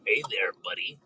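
breathy whispered cartoon greeting. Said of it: "Do a cartoon voice".

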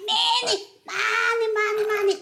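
high, sing-song, stretched many; Korean-accented emphasis. Retold or imitated. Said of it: "they just use it as".

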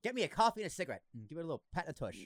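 put-on fast old-time screen patter; old black-and-white TV voice. Mock old TV man ordering coffee, fast vintage patter. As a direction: rattle it off like a vintage TV boss. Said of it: "That's exactly how it was in".

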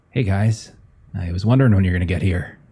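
thin, tinny robotic voice. Acted. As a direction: speak like a small tinny machine. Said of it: "with his tinny voice".

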